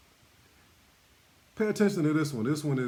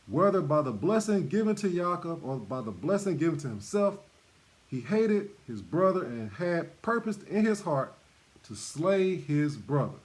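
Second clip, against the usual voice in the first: scripture reading. Acted. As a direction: read the Bible text with weight. Reads scripture aloud.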